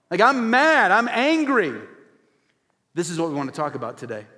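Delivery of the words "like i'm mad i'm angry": raised, mildly heated declaration; acted anger. Preacher voicing a gut reaction to wrong, mock anger. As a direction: voice someone mad at what they see.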